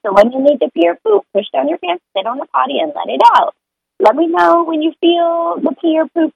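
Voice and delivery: put-on a mother gently guiding her toddler to the potty; talking to a toddler. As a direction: coax a little one toward the potty. Parent coaching toddler on potty.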